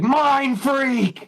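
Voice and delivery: high, showy magician's catchphrase; mock stage-magician flourish; hammed-up illusionist announcing the trick; Chris Angel. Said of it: "you act like Chris Angel at the end".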